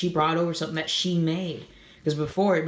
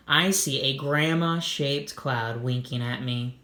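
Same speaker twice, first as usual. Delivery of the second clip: tender. Acted. Molly sees grandma cloud.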